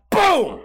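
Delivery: sudden high loud boom; mock explosion boom. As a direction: blurt the blast sound. Imitating the explosion.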